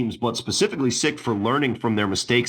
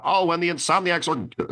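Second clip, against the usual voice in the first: higher-pitched broadcast booth announcer; 7 semitones higher than usual. Retold or imitated. Podcaster mimicking the broadcast booth, announcer voice. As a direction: call it like a regular announcer. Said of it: "just doing a regular announcer voice".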